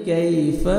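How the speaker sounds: "کیف" with a gentle, drawn "ay" glide; soft leen glide. Shown as a demonstration. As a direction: ease through the yaa in "کیف". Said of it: "نرمی سے ادا کریں گے". ("کیف" کی یا نرمی سے)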